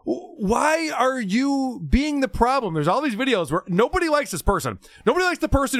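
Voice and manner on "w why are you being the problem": exasperated. Retold or imitated. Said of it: "I'm just like".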